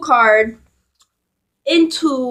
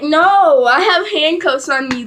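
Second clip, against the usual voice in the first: indignant protest; 3 semitones higher than usual. Retold or imitated. Protesting the plan to run.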